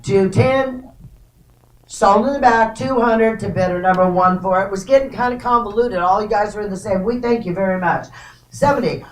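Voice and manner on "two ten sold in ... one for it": rapid rhythmic auction chant; auctioneer. Real, not acted. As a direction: rattle off the bids like an auctioneer. Live auction bid calling.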